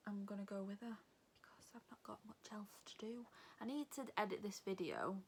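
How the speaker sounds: hushed unvoiced whisper. Real, not acted. Telling the camera her plans in a whisper. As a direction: keep it secret-quiet, barely breathing.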